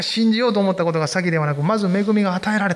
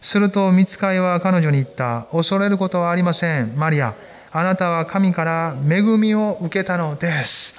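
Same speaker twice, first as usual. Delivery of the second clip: scripture reading. Acted. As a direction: read it aloud with the church. Reads scripture aloud together.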